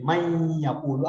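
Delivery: من یقول very slow with nasal hum on the n; recited with ghunna. Shown as a demonstration. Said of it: "پوری sound اس کی نہیں رہتی". (من یقول غنہ کے ساتھ بہت آہستہ)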